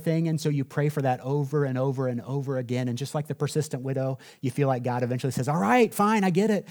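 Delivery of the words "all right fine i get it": higher, mock exasperated sigh of a reply; exasperated giving in. God giving in to a nagging prayer, mock exasperated. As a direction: throw up your hands, fine, have it.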